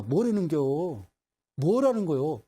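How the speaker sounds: drawn-out puzzled question; acted bewilderment; baffled. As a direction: stretch it out, unable to catch what was said. Acting someone who cannot hear whisper.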